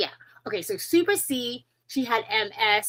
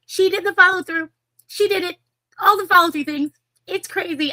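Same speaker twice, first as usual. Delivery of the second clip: high and loud praise; excited; 9 semitones higher, 6 dB louder than usual. Real, not acted. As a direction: gush about her, loud and high. Praising the guest.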